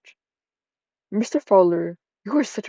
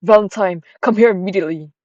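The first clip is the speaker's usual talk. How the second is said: louder stern mother summons; angry mother; 6 dB louder than usual. Acted. Mother summoning daughter, a touch of anger. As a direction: call her in sharply. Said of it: "your mom sounds angry".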